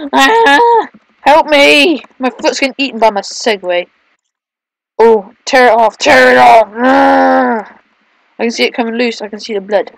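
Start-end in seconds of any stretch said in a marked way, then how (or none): 0.1-7.8 hammed-up cries for help; mock panic. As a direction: play the panicked victim. Foot being eaten in game.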